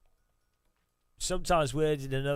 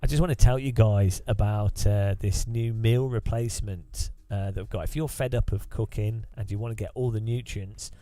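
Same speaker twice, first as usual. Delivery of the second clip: mock podcast bro; 2 semitones lower than usual. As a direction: parody the hype host selling junk. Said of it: "I need to talk like this".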